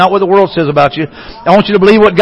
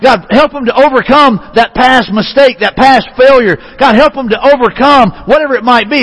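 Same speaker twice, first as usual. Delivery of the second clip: higher, earnest, urgent plea; impassioned mock prayer on another's behalf; pleading intercession; 4 semitones higher than usual. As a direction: plead with God for someone struggling. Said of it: "What's He pleading for you today?".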